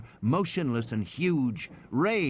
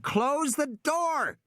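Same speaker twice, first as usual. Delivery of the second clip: urgent shout; much slower than usual. A narrator's reading. Tim urgently orders sister.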